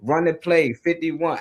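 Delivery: loud, pushy coaching orders; hard coach. Retold or imitated. Recalling hard coaches' orders on the field, mock coach bark. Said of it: "I done dealt with hard coaches".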